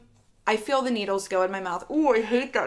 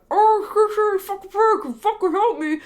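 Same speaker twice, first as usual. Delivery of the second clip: high, loud hammed-up plea for help; mock shouting for help at the nurse; mock desperate shout; 12 semitones higher, 8 dB louder than usual. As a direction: yell it like a joke cry for help. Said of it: "no, I'm kidding".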